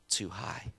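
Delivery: soft whispered punchline. Acted. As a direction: drop it to a whisper for effect.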